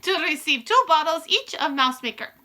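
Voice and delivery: high, loud commanding witch voice; Grand High Witch. Acted. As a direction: lay down the rules like a witch queen.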